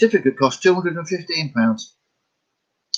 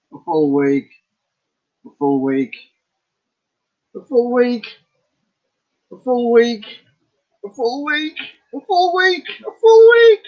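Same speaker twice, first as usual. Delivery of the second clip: climbing higher and higher each repeat; each full week pitched up more, building to a squeal; rising full week; 10 semitones higher, 4 dB louder than usual. Acted.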